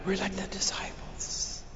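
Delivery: near-whispered reflection; hushed preaching. Real, not acted. Preacher likening the congregation to disciples, hushed. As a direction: drop to a soft, reverent hush. Hushed aside after loud plea.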